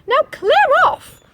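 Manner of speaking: high, loud bossy dismissal; high loud telling-off; clear off. Acted. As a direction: shoo him away sharply. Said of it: "said Little Red Riding Hood".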